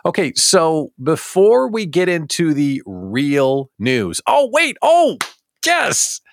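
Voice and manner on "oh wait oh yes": hammed-up discovery, voice leaping up; mock surprise. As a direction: jump way higher on a playful gasp. Spots a new commenter.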